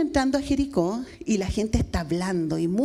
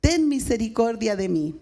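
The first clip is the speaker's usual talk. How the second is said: a lightly raised call, high on the name; crying out; 5 semitones higher than usual. Retold or imitated. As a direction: call to Jesus from the roadside, a touch raised. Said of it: "comienza a dar voces diciendo". (el ciego clama a Jesús, con voz algo elevada)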